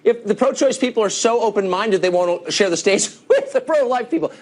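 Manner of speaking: talking through real laughter, high-pitched; amused protest breaking into laughs; laughing. Real, not acted. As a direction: laugh while trying to argue the point. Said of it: "I'm laughing".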